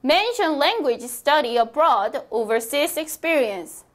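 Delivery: very slow, clear dictation pace; teacher modelling a sentence slowly; slow model reading. Shown as a demonstration. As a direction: spell it out slowly for learners. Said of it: "model sentence for repeating".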